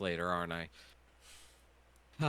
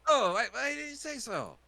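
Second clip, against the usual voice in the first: high, loud, outraged haggler; pushy shopkeeper; 4 dB louder than usual. Acted. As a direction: defend the steep price, loudly. Shopkeeper NPC voice.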